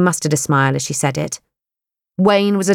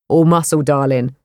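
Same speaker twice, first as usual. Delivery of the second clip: Wayne ribbing Kate; big young man; 3 semitones lower than usual. Acted. Wayne voiced.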